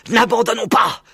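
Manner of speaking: voix plus aiguë, un peu essoufflée; haletant. A narrator's reading. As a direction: pousser ses petits en courant, à bout de souffle. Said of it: "haletait Maître Renard". (le renard presse ses enfants, essoufflé)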